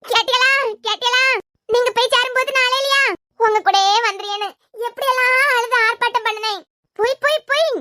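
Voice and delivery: hammed-up keening complaint; mock wailing lament. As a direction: call out to the departed, wailing theatrically. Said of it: "எதுக்கு செல்லம் அழுதுட்டே இருக்கீங்க". (நாடகத்தனமான ஒப்பாரி)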